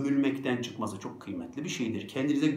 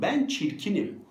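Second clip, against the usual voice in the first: raised, mock-pitiful voice; acted little lament; self-absorbed self-pity; 6 semitones higher than usual. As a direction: imitate someone buried in self-pity. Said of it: "Bak gömüldü kendine".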